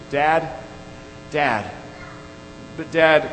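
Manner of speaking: halting plea with long pauses; lightly voiced crying boy; hesitant child working up to a question; retold tearful stammer. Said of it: "stammering through his tears".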